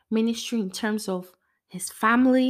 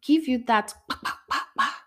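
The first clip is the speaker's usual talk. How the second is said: silly sound effect; 5 semitones higher than usual. Pretend. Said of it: "I don't know what that voice is".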